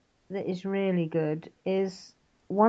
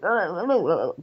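imitated verbal stumble on nonsense syllables; wobbling, garbled "oh-oh-oh"; stumbling voice. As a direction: mimic a voice tripping over its words. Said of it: "and, and your voice goes".

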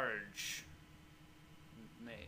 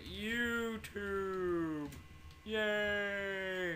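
cheery; 7 semitones higher, much slower than usual. Acted. Mock cheer.

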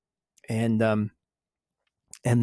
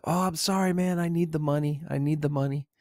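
higher, wheedling mock plea; retold apology in a raised, pleading pitch; imitated pleading apology; 5 semitones higher, 3 dB quieter, faster than usual. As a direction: act out the caught thief begging off. Caught thief pleading with guards.

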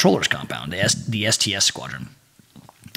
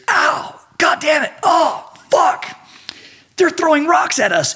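high-pitched mock yells of alarm; imitated pained shouting; 3 dB louder than usual. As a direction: cry out like you're being pelted. Imitates men hit by rocks.

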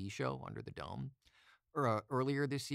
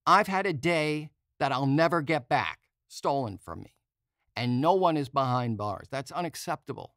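angry rant; 5 semitones higher, 10 dB louder than usual. Real, not acted. Ranting about a wasted day.

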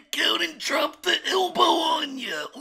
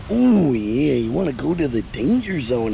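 Macho Man voice; 4 dB louder than usual. Acted. Wrestler voice to gator.

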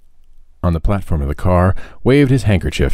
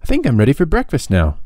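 put-on raised, wheedling boyish voice; hungry boy; 8 semitones higher than usual. A narrator's reading. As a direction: Tom coaxing the infirmarian for breakfast, raised and wheedling. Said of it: "he would say".

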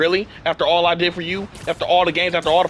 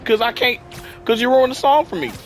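higher-pitched aggrieved rant; sad rage; 5 semitones higher than usual. Real, not acted. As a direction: rant in real, hurt exasperation. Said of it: "in a freaking sad rage".

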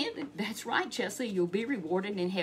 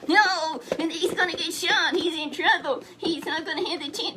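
high, loud alarm; 7 semitones higher, 6 dB louder than usual. Acted. Storyteller fearing for Jehoshaphat, high and loud alarm. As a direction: cry out in panic.

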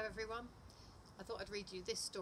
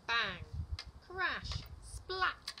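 loud, punchy crash words, climbing higher; storybook sound effects, bold and spaced out; exclaimed sound words; 5 semitones higher, 9 dB louder, much slower than usual. A narrator's reading. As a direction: punch out each noise word separately and loudly.

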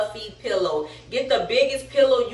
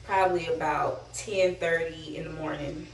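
low, subdued, slightly winded voice; real breathlessness, softly spoken; out of breath; 3 semitones lower, 6 dB quieter than usual. Real, not acted. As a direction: talk low, short of breath from being wrapped tight. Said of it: "seems like I'm out of breath".

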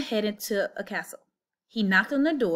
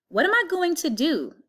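put-on higher, worried young Jack; worried boy aloud; 8 semitones higher, 4 dB louder than usual. A narrator's reading. Jack fretting to himself about his future, worried. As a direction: fret aloud like a poor boy. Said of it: "Jack said aloud to himself".

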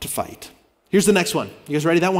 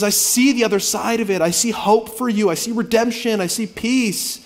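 higher, tender, slowing on the end; gentle reassurance; 4 semitones higher than usual. Acted. Pastor voicing God reassuring his people, tender. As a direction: comfort them, slowing down. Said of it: "And he says".

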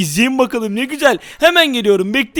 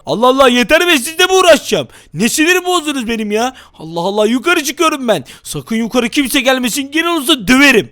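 mock angry exit. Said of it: "sinirli taklidine geçelim".

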